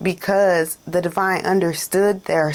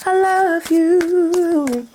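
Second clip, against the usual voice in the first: breathless high whisper, very slow; 10 semitones higher, much slower than usual. Acted. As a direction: whisper it as a lyric. Whispered within the song.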